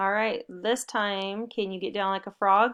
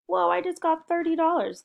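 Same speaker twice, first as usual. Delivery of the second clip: mock delight; 8 semitones higher than usual. Teacher pretends delight at money.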